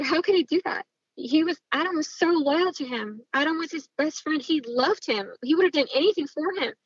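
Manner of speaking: indignant, pitch lifted on each accusation; pointed reproach. Retold or imitated. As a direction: replay pleading outrage meant to be overheard. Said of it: "I'm saying this on purpose so that Gary can hear this".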